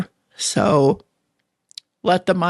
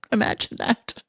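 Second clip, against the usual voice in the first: mock whisper; 3 semitones higher, 5 dB quieter than usual. Real, not acted. Joking about her face on screen.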